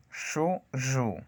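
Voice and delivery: hissed "Shu", then buzzing "zhu"; voiceless-voiced contrast. Shown as a demonstration. Teacher drills the two consonants for learners, unvoiced then voiced. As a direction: switch the buzz on from "Shu" to "zhu". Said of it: "no hay vibración en mis cuerdas vocales".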